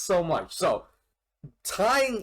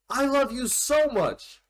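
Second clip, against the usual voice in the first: emotional confession; 6 semitones higher than usual. Retold or imitated. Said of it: "he goes like".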